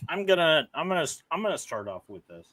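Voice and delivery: talking through a mouthful of food; words mumbled round a bite; mouth full. Real, not acted. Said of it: "Don't talk with your mouth full".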